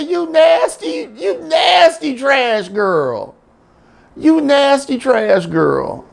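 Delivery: high, yelling dog voice, half laughing; disgusted dog shout. Retold or imitated. Dog yelling at the woman, high disgusted shout. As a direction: holler it like an outraged cartoon dog. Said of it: "the dog said".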